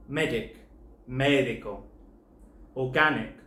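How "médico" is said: médico with the beat on MÉ, the last two syllables light; shifted stress. Shown as a demonstration. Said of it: "there's a shift in stress here".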